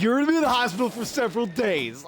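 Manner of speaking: quick, emphatic quote of a worked-up brother; emphatic imitation. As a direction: redo the brother's warning briskly, without laughing. Repeats the brother's quote after laughing.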